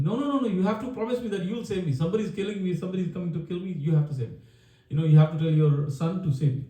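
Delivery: high, pleading voice, easing down; a mild acted panic, begging for a promise; begging king. Frightened king begs for protection.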